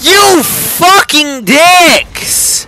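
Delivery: yelling across the room. Real, not acted. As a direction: shout it at your friends. Player yelling at teammates in game.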